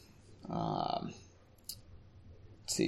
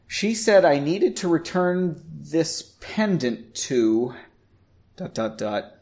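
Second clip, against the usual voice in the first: nervous; 3 semitones higher, slower than usual. Acted. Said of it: "Erin said nervously".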